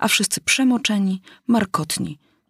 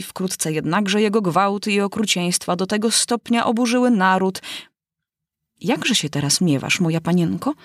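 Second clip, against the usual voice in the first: self-important mouse. Acted. The mouse lectures the wet animals, lightly voiced and pompous.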